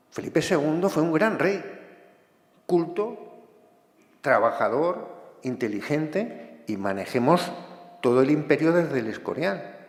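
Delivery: impassioned, emphatic praise with deliberate pauses; getting carried away. Real, not acted. Lecturer defending Felipe segundo as a great king, getting carried away. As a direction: let enthusiasm heat up the delivery. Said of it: "me caliento un poco".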